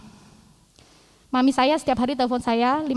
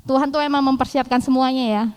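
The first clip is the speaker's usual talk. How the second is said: ordinary talk, nothing marked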